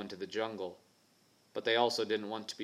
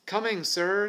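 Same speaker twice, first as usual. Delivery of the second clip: higher, louder answering call; 10 semitones higher, 6 dB louder than usual. Acted. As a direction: call back eagerly. James calls back to Alf.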